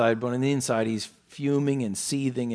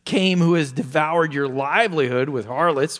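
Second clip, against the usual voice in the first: louder, mildly contemptuous accusation; sneering; 3 semitones higher, 6 dB louder than usual. Retold or imitated. Elder son accuses his brother to their father, sneering. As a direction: act out scorn for the brother. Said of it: "look at the sneering again here".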